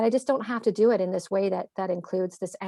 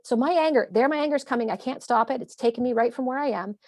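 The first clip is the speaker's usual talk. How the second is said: playfully exaggerated anger; 3 semitones higher than usual. Shown as a demonstration. Mom warning her kids her anger is coming, playful exaggeration. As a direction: lightly ham up the oncoming anger. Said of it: "So I exaggerate it".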